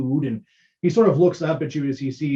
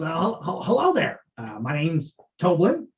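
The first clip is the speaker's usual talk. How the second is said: lightly voiced stammering dwarf; a hint of a jolly dwarf barkeep; dwarf innkeeper. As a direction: greet the guest with nervous cheer. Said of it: "he kind of toddles up to you and goes".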